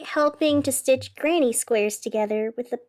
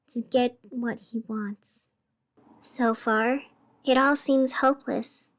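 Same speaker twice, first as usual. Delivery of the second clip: story narration. A narrator's reading. Host narrates eerie train tale, hushed.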